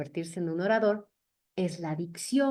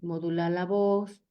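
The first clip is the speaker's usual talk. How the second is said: measured pace. Shown as a demonstration. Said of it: "hay que buscar una velocidad promedio".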